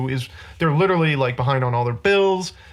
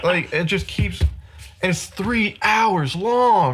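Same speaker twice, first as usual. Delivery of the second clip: exasperated ranting; 4 semitones higher, slower than usual. Real, not acted. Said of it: "the speaker's red hot rage".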